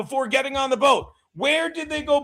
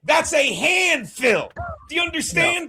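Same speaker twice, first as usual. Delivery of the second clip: mock lecturing shout; 6 semitones higher than usual. Real, not acted.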